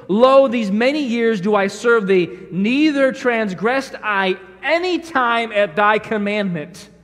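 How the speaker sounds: slow, solemn, pious King James delivery; self-righteous elder son. Acted. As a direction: recite it like a smug older brother. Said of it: "He goes".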